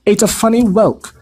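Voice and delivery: gruff announcement to his wife; informing uncle. A narrator's reading. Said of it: "he informed Aunt Petunia".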